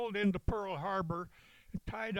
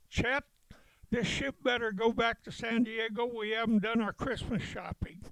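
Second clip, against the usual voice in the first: mild mock holler, pitched up; retold hollering; 3 semitones higher than usual. Marines heckling the admiral from the rail, mild retold holler. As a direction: imitate calling up to someone, only lightly raised. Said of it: "we started hollering".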